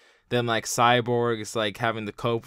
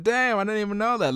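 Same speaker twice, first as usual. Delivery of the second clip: retold amazement; 9 semitones higher than usual. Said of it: "I was like".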